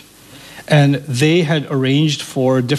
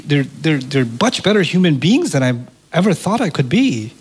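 normal talking voice

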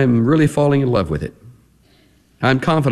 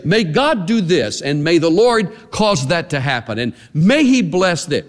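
prayer wish; 5 semitones higher than usual. Shown as a demonstration. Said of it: "look at you with my eyes open and say".

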